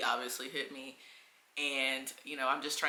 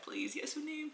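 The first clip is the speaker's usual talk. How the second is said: frantic prayer; 12 semitones higher, 4 dB quieter than usual. Retold or imitated. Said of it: "any language that I know".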